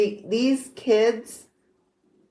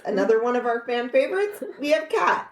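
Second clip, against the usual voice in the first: game show host; 3 semitones higher than usual. Pretend. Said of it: "Do I sound like a game show host?".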